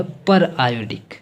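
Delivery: पर आयोडिक split into पर and आयोडिक; two separate words. Shown as a demonstration. Teacher showing the acid's name, पर आयोडिक said as two words. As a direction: say पर, then आयोडिक as its own word. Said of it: "पर अलग पढ़ना है और आयोडिक को अलग".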